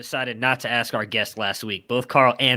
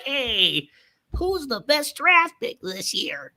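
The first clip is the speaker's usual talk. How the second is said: mock bland interviewer; 11 semitones higher, slower than usual. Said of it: "and it's like".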